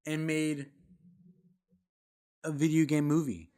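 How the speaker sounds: booming movie-review hype; excited hype. Real, not acted. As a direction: sell it big to the viewers.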